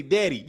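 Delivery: "daddy" with the first vowel as eh; Chicago-style "daddy", rhyming with "ready"; Chicago pronunciation. Retold or imitated. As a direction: say "daddy" like "deddy". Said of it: "B and B said in Chicago".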